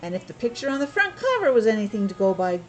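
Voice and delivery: steady read-aloud storytelling voice; story narration. Acted. Parent reading Paddington to a child, storytelling voice.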